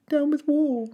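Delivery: put-on young dinosaur's peaceful chant; hooting Drip. A narrator's reading. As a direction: hoot it sweetly like a duckbill. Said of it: "he hooted".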